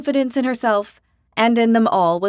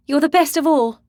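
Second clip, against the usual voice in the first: a bright, louder reassurance; reassuring; 7 semitones higher, 5 dB louder than usual. A narrator's reading. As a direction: lift her up, higher and louder. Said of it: "Nielsa assured her".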